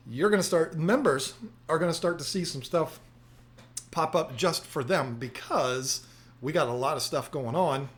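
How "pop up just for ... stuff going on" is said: chewing gum. Real, not acted. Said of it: "I'm spitting all over the place 'cause I just put a brand new piece of gum in my mouth".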